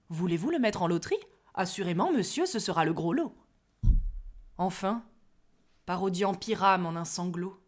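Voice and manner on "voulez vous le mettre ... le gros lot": quick, businesslike pitch; practical. Acted. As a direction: rattle it off like a salesman. (pratique et expéditif)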